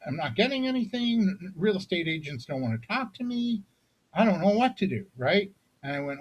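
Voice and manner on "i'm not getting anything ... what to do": high, mock-tearful retelling of a panicked client; lightly voiced distressed client close to tears; imitating near tears. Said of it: "she was almost in tears".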